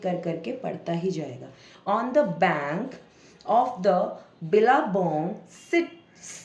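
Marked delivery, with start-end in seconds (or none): 1.9-6.4 halting model reading, long gaps and stretched words; slow word-by-word reading. Shown as a demonstration. Teacher models reading with a pencil, slowly syllable by syllable.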